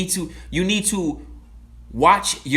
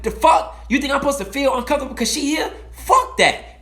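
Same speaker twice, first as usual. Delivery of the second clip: defiant retort; 8 semitones higher than usual. Retold or imitated. Retorts to people staring.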